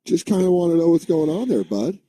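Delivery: mock-polite fatherly asking; Tom Hanks impression. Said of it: "he was like".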